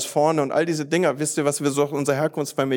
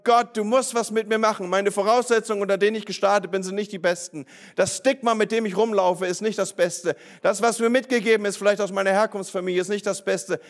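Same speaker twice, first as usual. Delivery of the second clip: acted prayer; 5 semitones higher than usual. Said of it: "vor Gott zu stehen und zu sagen".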